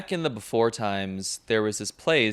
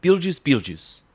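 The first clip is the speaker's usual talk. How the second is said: Winona Ryder impression; 6 semitones higher, 4 dB louder than usual. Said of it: "Who are you supposed to be?".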